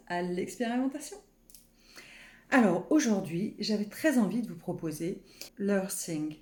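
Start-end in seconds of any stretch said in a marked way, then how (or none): 5.6-6.4 French speaker's attempt at an English accent. Shown as a demonstration. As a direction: say it with a light, self-mocking English accent. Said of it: "avec mon super accent anglais".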